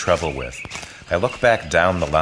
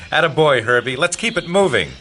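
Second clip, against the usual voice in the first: higher, raised cheering-on voice; encouraging call; 9 semitones higher, 6 dB louder than usual. Acted. Troop leader to boy reaching the hilltop, encouraging call. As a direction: call out encouragement, lifted in pitch.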